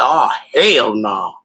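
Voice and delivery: slow, drawn-out "Oh, hell no" falling; disbelieving. Retold or imitated. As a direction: stretch "Oh, hell no" slowly down. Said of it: "I said".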